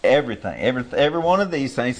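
halting, stumbling over words; stammer, restarting the phrase; stuttering. Real, not acted. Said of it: "See, I'm stuttering around".

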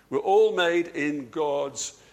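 slow phrase with "all" the most prominent word; deliberate weight on "all"; stress on ALL. Real, not acted. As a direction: restate it slowly, leaning on "all". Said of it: "emphasis on the word all".

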